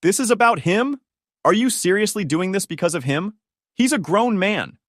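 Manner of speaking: acted outrage, incredulous and high; enraged outburst. A narrator's reading. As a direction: voice Ashley's fury with pitch jumping up. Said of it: "immediately transformed into pure rage".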